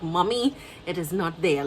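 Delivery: mildly irritated, retold insistence to mom; a touch of frustration, pressing the point. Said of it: "Like, I was starting to get".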